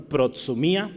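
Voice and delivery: Protsumía pronounced the Spanish way; Spanish-style pronunciation. Shown as a demonstration. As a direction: say Protsumía as a Spanish word, ending in mí-a. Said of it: "cómo se pronuncia en español".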